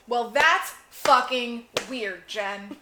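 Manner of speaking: drawn out, slow and deliberate; slow emphatic. Shown as a demonstration. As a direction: spell out how weird it is.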